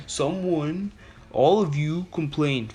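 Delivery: high, drawn-out mock accusation; imitated indignant teacher. Student mimicking teacher accusing the class, high indignant voice. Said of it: "This is her exact words".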